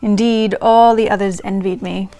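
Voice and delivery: reading the diary aloud in a light, put-on English accent. Reading Vivian's 1928 diary to viewers in an English accent. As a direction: channel the Queen, in an amateur English accent. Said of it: "We try it in an English accent".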